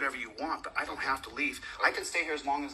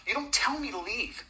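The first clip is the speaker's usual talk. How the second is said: heated, raised and higher; real anger boiling over; angry outburst at the officer; 4 semitones higher than usual. Real, not acted. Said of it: "I'm pissed off".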